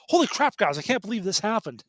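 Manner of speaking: high, bright burst of shock, then settling; stunned outburst. Retold or imitated. Telling coworkers about the plot twist, mock shocked outburst. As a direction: blurt it like a spoiler just hit you.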